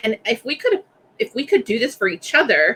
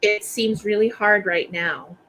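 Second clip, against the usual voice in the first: sit beside them and soothe gently; calm reassurance. Shown as a demonstration. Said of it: "That's not what you say".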